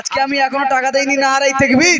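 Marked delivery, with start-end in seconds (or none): 1.3-2.0 rallying cry rising at the end; drawn-up takbir call; slogan call. Real, not acted. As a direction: call it out for the crowd to answer. Leads the crowd in takbir slogan.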